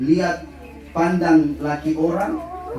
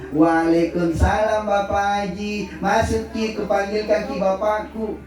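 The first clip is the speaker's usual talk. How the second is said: ramah tersenyum. Retold or imitated. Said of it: "Kau hadapi dengan senyuman".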